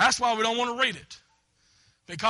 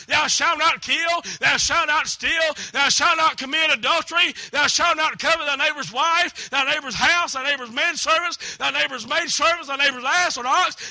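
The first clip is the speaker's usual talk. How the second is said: a pastor shouting the commandments at sinners; preacher shouting; 3 semitones higher, 4 dB louder than usual. Retold or imitated. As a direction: thunder the commandments from the pulpit. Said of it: "scream and spit and shout".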